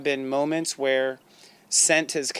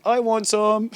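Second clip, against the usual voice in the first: a lightly voiced pleading dog, higher; 7 semitones higher, 5 dB louder, slower than usual. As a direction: friend voicing Chris the dog wanting dinner. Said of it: "she would play the voice like".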